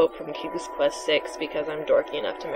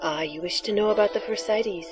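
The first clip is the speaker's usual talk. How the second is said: hushed mystical seer; breathy oracle voice; 2 semitones higher, 4 dB quieter than usual. Acted. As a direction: softly intone the prophecy. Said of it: "your breathy, sexy voice for the oracle".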